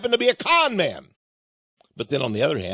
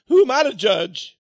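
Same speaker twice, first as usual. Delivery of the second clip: mock shout; 4 semitones higher, 3 dB louder than usual. Punchline quote from the other astronaut.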